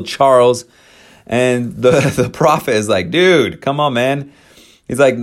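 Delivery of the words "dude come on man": casual dismissive. Retold or imitated. Joseph brushing off misfire.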